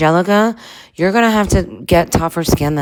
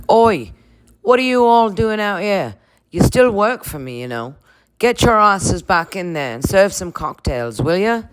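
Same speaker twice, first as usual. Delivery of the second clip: higher scolding boss voice with a cheeky "Oi"; Lisa Vanderpump; 5 semitones higher than usual. Retold or imitated. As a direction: bark at the staff like their boss. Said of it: "it wouldn't be the season finale without Lisa".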